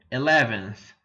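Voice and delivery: eleventh, teacher demo; model pronunciation. Shown as a demonstration. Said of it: "O décimo primeiro".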